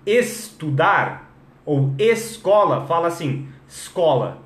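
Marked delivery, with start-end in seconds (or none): 0.1-2.9 slow "estudar ou escola", each E sounded; full opening E. Shown as a demonstration. Teacher showing what to avoid, slow "estudar ou escola" with E. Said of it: "em vez de falar". 3.7-4.4 "escola" cut to "scola", lower pitch; escola without E. Shown as a demonstration. Teacher drilling Portuguese practice word "escola" minus its E. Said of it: "tira o E".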